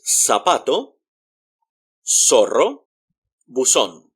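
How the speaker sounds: zapato, zorro, buzón with z as s; "sa-PA-to, SO-rro, boo-SON" for zapato, zorro, buzón; Latin American S. Shown as a demonstration. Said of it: "it's more like an S".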